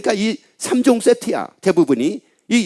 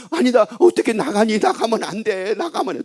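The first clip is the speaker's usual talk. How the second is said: mock coaxing, rising in pitch as it softens; pleading parent; 3 semitones higher, 3 dB quieter than usual. 협박에 말리는 부모 흉내. (달래며 말리는 부모 흉내)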